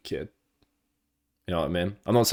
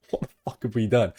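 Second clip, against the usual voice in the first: laughing disbelief; 4 semitones higher than usual. Retold or imitated.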